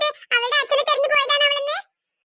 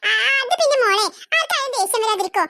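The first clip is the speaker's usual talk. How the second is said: laughing it off, caught out; aunt chuckling when caught out; awkward laugh; 3 semitones lower than usual. Acted. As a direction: cover with a nervous chuckle.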